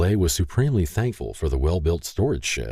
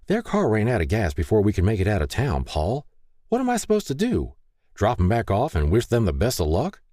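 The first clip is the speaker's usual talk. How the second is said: exasperated wife, rising high on the question; pleading protest; 5 semitones higher than usual. Acted. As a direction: challenge your husband, voice climbing. Wife argues with husband.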